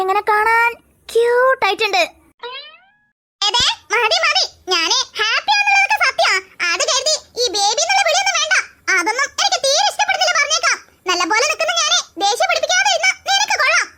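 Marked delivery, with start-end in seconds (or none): 3.4-13.9 playful scolding. Acted. Girl teasingly scolds boyfriend.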